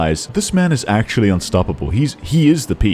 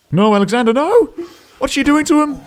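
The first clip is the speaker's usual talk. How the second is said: high-pitched horrified protest; hammed-up squeal of alarm; mock panic. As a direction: cry out as if helplessly watching a friend in danger.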